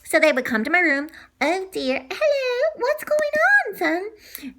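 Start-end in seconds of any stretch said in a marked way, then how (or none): 1.4-4.5 high gentle mother, slightly slowed; lightly voiced mom. Mom checking on her son at night, light high voice. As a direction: play the concerted mom.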